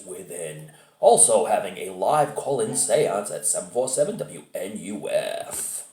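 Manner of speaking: lightly hammed TV promo read; announcer teaser. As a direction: read it out like a Halloween special announcer. Reads out the special's teaser.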